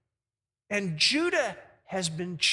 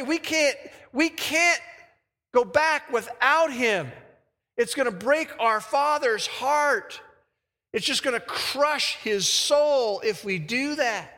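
earnest plea; slower than usual. Acted. Brothers plead for Benjamin's return.

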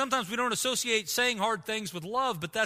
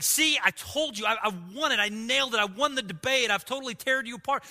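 quick, higher-pitched smug boast; mock gloating; 4 semitones higher than usual. Preacher mimicking a winner crowing over his opponents, mock gloating. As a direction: crow like you just won the debate. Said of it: "Not saying".

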